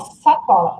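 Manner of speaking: sacola with the s held long and hissed. Shown as a demonstration. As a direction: lean on the opening s of sacola. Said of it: "som de sacola". (sacola com o S prolongado)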